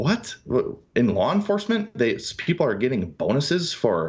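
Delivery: shocked, astonished, disbelieving tone.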